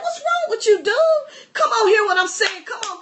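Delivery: high-pitched mock disbelief; hammed-up baffled exasperation; exasperated God. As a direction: ask in a high, incredulous voice. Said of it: "And God's like".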